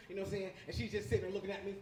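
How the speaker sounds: normal talking voice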